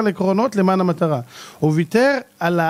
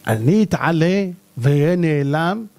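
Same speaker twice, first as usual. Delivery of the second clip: slow pointed reply; 4 semitones lower, slower than usual. Acted. Husband answers wife with rhetorical question.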